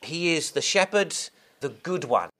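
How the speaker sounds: "good" carries the weight in "the good one"; "shepherd" light, "good" leaned on; stress on good. Shown as a demonstration. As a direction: let "good" land with a firm fall. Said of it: "the emphasis almost comes more on the adjective".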